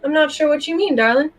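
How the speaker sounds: put-on a light southern gentleman accent; a hint of a southern gent, smooth and polite. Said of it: "I changed accents".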